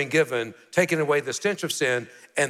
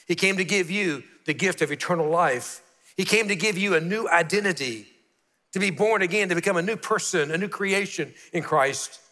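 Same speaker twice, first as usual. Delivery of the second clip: rising preaching climax; 3 semitones higher than usual. Real, not acted. Preaching climax, repeated lines.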